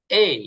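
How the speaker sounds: "এই" with only a light short i at the end; correct A, "এই". Shown as a demonstration. Teacher models the corrected letter, "এই" with a faint i tail. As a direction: let "এই" glide gently from e to i. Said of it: "হালকা হ্রস্ব ই যেটা বলে".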